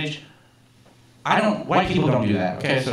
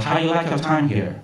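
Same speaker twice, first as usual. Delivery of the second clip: imitated boss with a Chinese accent; Big Chen. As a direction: lightly mimic a boss's Chinese accent. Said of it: "I'm just imitating his actual voice".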